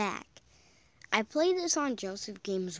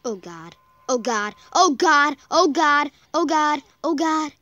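rising, louder frightened repetition; terrified gibbering; 5 semitones higher, 12 dB louder than usual. Real, not acted. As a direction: babble in rising fear. Terrified in game.

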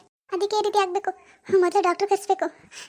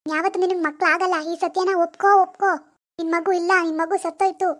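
stern harsh truth. Acted. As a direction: hammer the facts home. Mother forces the harsh truth.

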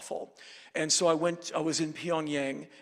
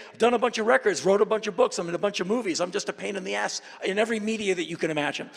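mock boast; 5 semitones higher, 5 dB louder, faster than usual. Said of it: "'cause I can't say".

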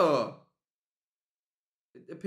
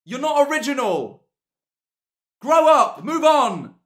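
loud, high mocking rant; ranting yell; 8 semitones higher, 12 dB louder than usual. Real, not acted. Streamer mocking a chatter, loud rant. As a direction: shout it in heated mockery.

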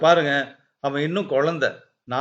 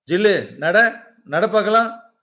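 higher-pitched urging to a pet; coaxing dog command; 4 semitones higher, 3 dB louder than usual. Acted. Boy getting his dog to walk, eager command. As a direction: urge the dog on in short calls.

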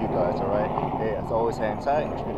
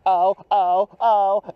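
mock cries of pain; 7 semitones higher, 4 dB louder, much slower than usual. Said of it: "you're gonna go".

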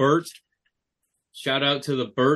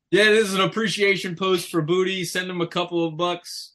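mock hype announcer; 7 semitones higher than usual. Imitating a fake appreciation post.

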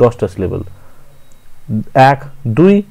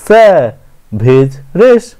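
slow scansion reading; much slower than usual. Shown as a demonstration. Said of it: "stress ফেলার পালা".

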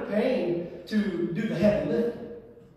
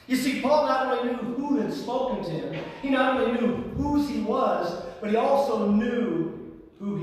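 emphatic preaching; 6 semitones higher, 4 dB louder than usual. Acted. Preaches with raised force.

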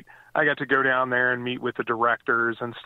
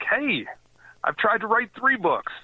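much higher mock protest; retold reply; 10 semitones higher than usual. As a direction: pop the reply up high, half-joking. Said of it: "And I was like".

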